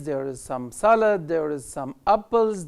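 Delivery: slow, clear teacher drill; slow model reading. Shown as a demonstration. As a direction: read each word out slowly for the class. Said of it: "teacher modelling sentences". (قراءة نموذجية بطيئة)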